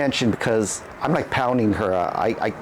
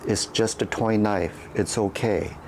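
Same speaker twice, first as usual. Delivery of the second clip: softer, soothing reassurance; soft calming voice; 2 semitones lower than usual. Retold or imitated. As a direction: hush him gently after the scare. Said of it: "the softest and calming voice ever".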